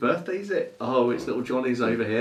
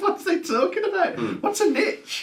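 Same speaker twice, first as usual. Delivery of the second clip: play-acted chuckling, amused, tickled, swooping delivery. Imagining UK listeners hearing an American radio advert, laughing with amusement. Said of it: "(amused laughing)".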